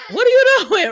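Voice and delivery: loud, high, incredulous question with a laugh; laughing disbelief. Acted. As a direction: scold him while cracking up. Scolding the gunman she describes.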